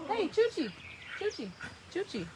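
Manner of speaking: high-pitched pet call, fading; calling a dog. Real, not acted. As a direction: call the dog over by name.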